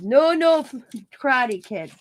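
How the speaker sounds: amused mimicry of the doctor; playful mock prohibition; doctor impression. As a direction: imitate the doctor's emphatic no. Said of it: "that's how he said it".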